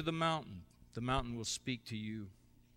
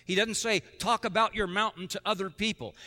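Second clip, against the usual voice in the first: preaching loud; 7 semitones higher, 7 dB louder than usual. Real, not acted. Preacher contrasting what Jesus said.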